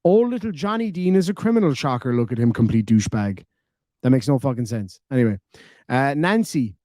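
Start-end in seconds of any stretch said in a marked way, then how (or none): 0.0-3.4 mocking read without pauses. Shown as a demonstration. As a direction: run the whole message together with no stops, sneering. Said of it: "full stop button and your comma button broken".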